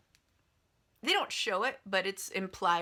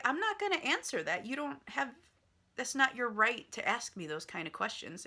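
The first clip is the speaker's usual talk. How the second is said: high-pitched mock indignation; retold protest, starting high; indignant refusal; 5 semitones higher than usual. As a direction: act out a daughter refusing to answer her father. Daughter refuses father's question in retold quarrel.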